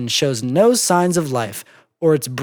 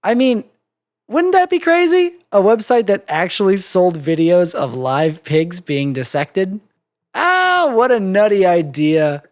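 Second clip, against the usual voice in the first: high, forced cheerful disbelief; laughing it off, too brightly; nervous laugh-along; 4 semitones higher, 3 dB louder than usual. Acted. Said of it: "smiled along with her".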